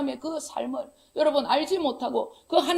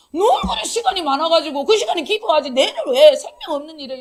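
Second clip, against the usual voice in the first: laughing scold; 2 semitones higher, 6 dB louder than usual. Real, not acted. Laughing scolding of letter writer.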